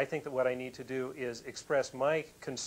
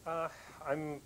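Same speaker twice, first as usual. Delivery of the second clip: relieved. Real, not acted. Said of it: "it sounds like you're relieved".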